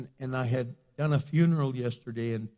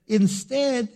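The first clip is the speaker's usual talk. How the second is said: raised-pitch, driving sermon delivery; impassioned preaching; 8 semitones higher, 7 dB louder, slower than usual. Acted. Pastor urging the church to tell their stories, impassioned preaching. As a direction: pile up the testimonies and build to the peak. Preaches scripture at full force.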